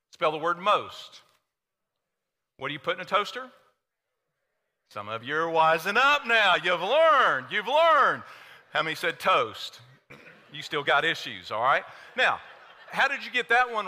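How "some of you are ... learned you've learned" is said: mock triumph. Mock triumph as congregation catches on.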